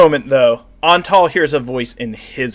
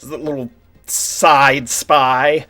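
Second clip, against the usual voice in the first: commanding vampire queen. Acted. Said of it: "Ileana's like".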